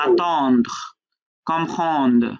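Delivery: "attendre, comprendre", each closed on final consonants; same ending sound. Shown as a demonstration. Teacher lining up rhyming words, "attendre, comprendre" with matching stopped endings. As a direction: rhyme "attendre, comprendre" with falling, vowelless endings. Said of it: "একই sound".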